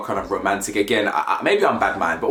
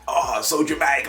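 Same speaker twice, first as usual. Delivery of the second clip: higher, hammed-up swoon; mock dramatized; 4 semitones higher than usual. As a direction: imitate an overwrought American TV star. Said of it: "it always feels so dramatized".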